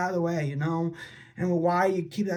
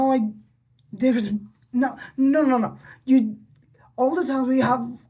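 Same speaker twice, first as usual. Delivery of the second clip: real upset, worked-up pleading, slightly raised; emotional; 3 semitones higher than usual. Real, not acted. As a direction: get worked up, stumbling and restarting as you reproach. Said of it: "kinda emotional".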